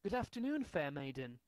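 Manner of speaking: posh British. Pretend. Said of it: "You have to go".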